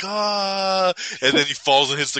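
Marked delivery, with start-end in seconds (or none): 0.0-0.9 drawn-out mock dive cry; high, stretched-out "ah" as if leaping; slow-motion yell. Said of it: "full slow motion, and it's like".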